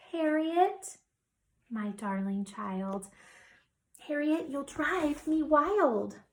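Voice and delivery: slow, measured exasperated mother; restrained mother. A narrator's reading. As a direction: hold back from yelling, drawing out the words. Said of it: "Her mother didn't like to yell".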